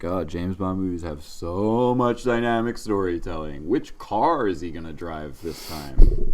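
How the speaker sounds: sarcastic fake enthusiasm, drawn out at the end; mock gushing praise. Host mocking Bond fans with fake sarcastic awe. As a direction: oversell it with heavy sarcasm. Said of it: "so instead I'll just say".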